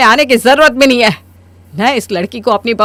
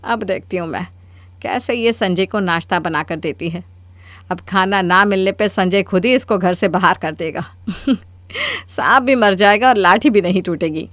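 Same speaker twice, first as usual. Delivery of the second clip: much softer, plotting to herself; scheming gloat; 4 semitones lower, 5 dB quieter than usual. Acted. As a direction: gloat quietly over the scheme. Mother schemes alone, gloating. (मन ही मन चाल सोचते हुए धीमे स्वर में)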